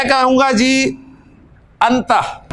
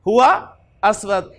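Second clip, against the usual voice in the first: slow correction; 3 semitones lower, slower than usual. Shown as a demonstration. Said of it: "ये उलट हो गया".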